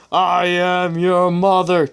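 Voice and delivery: slow mock-dramatic Star Wars reveal; dramatic villain reveal. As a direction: deliver the reveal like a movie villain. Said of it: "said dramatically".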